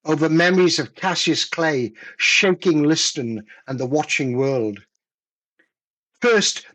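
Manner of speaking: slow, measured poetry reading; a poet reading his own verse aloud; poem reading. Acted. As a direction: let each line land, unhurried. Poet reads his poem Railroad.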